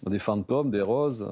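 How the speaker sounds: "fantômes" and "roses" with wide open o; southern French vowels, an open "aw" in "fantômes" and "roses". Shown as a demonstration. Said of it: "des hauts ouverts comme ça".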